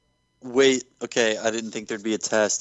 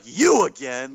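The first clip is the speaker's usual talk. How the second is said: mock excited; 10 semitones higher, slower than usual. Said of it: "From the way you say it, he's not like".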